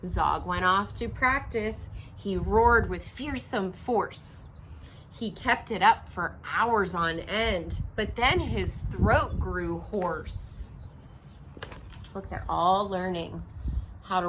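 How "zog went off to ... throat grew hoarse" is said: story narration. A narrator's reading. Reading picture book aloud.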